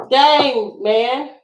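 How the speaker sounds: ordinary delivery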